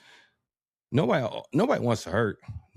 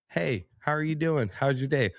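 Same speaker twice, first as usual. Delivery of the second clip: friendly greeting; 6 semitones higher than usual. Shown as a demonstration. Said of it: "say something to you in a way".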